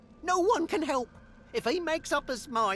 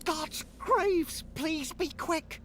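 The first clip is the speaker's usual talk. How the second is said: panicked; 5 semitones higher, slower than usual. Acted. Undead panicking.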